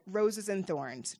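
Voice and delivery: roses and thorns stretched out slowly; slow and deliberate. Shown as a demonstration. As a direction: lay each word down slowly, like a label for the kids. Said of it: "naming a check-in".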